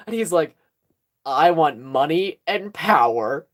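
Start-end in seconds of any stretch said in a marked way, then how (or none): 1.3-3.5 slow, lightly acted blank delivery; blank staring. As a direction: say it slowly, as if staring into nothing. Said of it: "He just, like, stares off into nothing".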